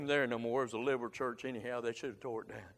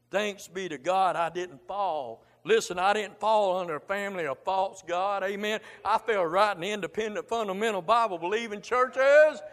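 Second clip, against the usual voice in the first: rising fervor; 4 semitones higher, 7 dB louder than usual. Real, not acted. Preacher building to climax.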